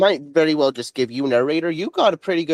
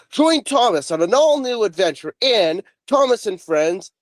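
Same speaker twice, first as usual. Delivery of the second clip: trailer voice; 7 semitones higher than usual. Shown as a demonstration. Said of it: "so I wanna hear you do".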